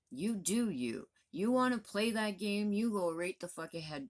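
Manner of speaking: exasperated outburst. Real, not acted. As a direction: throw the dare at them, pitch jumping up.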